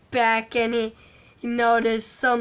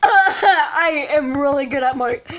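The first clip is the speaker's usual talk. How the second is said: laughing; 3 semitones higher, 5 dB louder than usual. Real, not acted.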